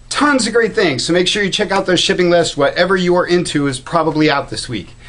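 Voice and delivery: winded, out of breath; talking while short of breath. Real, not acted. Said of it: "As you can see, I'm running out of breath".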